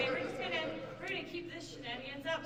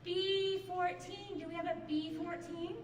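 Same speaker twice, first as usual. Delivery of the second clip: bingo caller; 4 semitones higher, 3 dB louder, slower than usual. Shown as a demonstration. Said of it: "I'm trying out my different voices".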